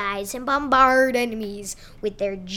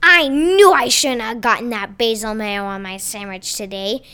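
yelling; 6 dB louder than usual. Acted. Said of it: "yelled Pizza Man".

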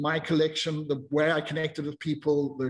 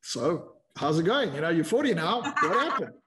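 mocking inner voice; slower than usual. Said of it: "little voice in my head going like".

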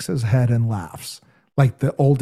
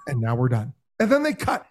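ordinary talk, nothing marked

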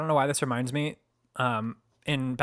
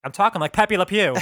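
sudden New York accent, a bit louder and higher; 4 semitones higher, 4 dB louder than usual. Real, not acted. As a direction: slip into New York talk. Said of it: "You got real New York all of a sudden".

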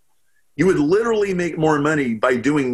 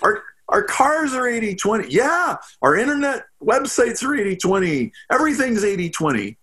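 rising excitement, faster, higher; excited; 5 semitones higher than usual. Real, not acted. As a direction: pile up the examples, getting more excited. Building excited list of examples.

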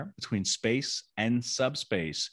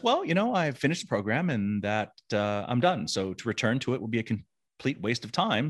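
cheerful; 3 semitones higher than usual. Retold or imitated. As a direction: brush it off with forced cheer. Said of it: "cheerfully says".

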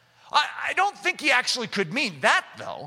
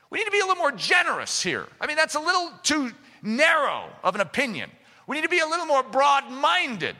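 crafty tempter voice; 4 semitones higher than usual. Retold or imitated. Mocking the crafty voice's pitch.

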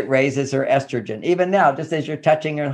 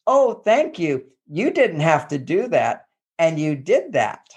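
imitating a wife's grateful wonder; appreciative tone. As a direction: voice mildly touched appreciation for an unexpected favor. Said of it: "what did the tone of voice said".

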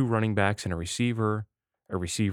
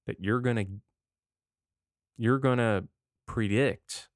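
stoned. Real, not acted. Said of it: "I'm a little stoned right now".

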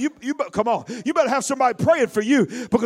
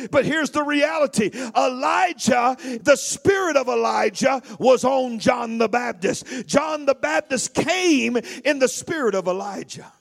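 emphatic preaching. Acted. Preaching at full force.

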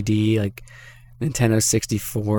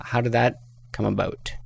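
Canadian accent. Real, not acted. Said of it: "See my Canadian accent there".

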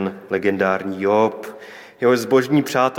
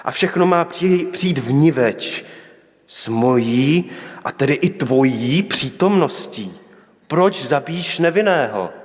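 raised, pleading protest, short of a shout; crying out; 2 semitones higher than usual. Acted. Prophet protesting to God over the widow's son, restrained outcry. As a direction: cry out to God in mild outrage. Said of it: "I on křičí".

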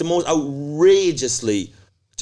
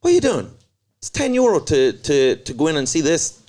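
high, mocking challenge at the door; mock outraged doorman; 4 semitones higher than usual. Blocking a freeloader at the door, high mocking voice. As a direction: pitch it way up to mock-challenge him.

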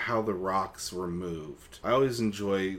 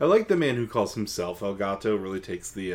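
laughing. Real, not acted. Laughing while commenting.

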